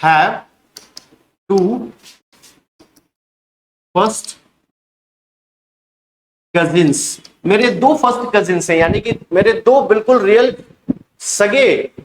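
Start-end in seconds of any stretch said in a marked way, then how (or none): 0.0-7.2 word by word. Shown as a demonstration. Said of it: "ऐसा भी आप sentence बोल सकते हैं".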